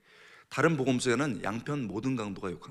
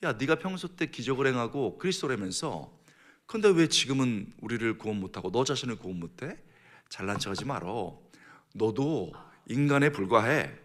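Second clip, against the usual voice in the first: mildly acted sneering abuse; a touch of mocking contempt; scornful taunting; 3 dB louder than usual. Crucified criminal insulting Jesus, mildly scornful. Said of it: "아주 심하게 욕을 했습니다".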